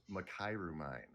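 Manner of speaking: "Makairu" said muh-KAI-roo, stress on KAI; preferred name pronunciation. Shown as a demonstration. Guest telling the host his chosen name, "Makairu" as muh-KAI-roo. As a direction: say "Makairu mine" with a long "eye" in the middle of "Makairu". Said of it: "I actually go with".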